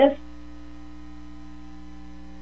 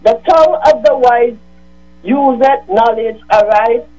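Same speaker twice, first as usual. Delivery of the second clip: measured, solemn Bible reading; scripture reading. Acted. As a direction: read each verse like a Sunday lesson. The speaker reads Proverbs on radio.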